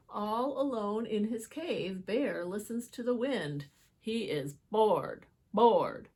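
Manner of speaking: put-on reading a picture book to children; lively read-aloud for little listeners; storybook voice; story narration. A narrator's reading.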